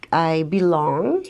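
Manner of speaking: belong leaned on slowly, rising; stress on belong. Real, not acted. Guest telling her heritage, stressing belong on purpose. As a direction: give belong deliberate weight. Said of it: "I say belong purposeful".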